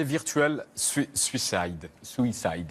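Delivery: English title in a French speaker's careful English accent; attempted English accent. Real, not acted. Interviewer stumbling over the book's English title, attempted English accent. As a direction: try the English pronunciation of "Suicide", feeling for it. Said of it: "Vous avez un bel accent".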